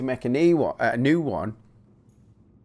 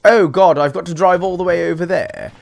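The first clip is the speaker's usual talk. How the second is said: put-on louder British moan, out of Black Country accent; non-Black Country British accent; 5 semitones higher, 5 dB louder than usual. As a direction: groan it in a more neutral British accent. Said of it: "maybe not in a black country accent".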